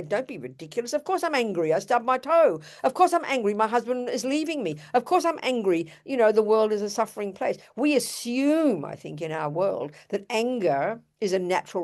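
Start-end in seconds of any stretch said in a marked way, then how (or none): 0.0-7.6 mock indignant outburst. Teacher acting out her own angry retort to a friend, mock indignant. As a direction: play the exasperated victim, half in jest. Acted indignant reply about anger.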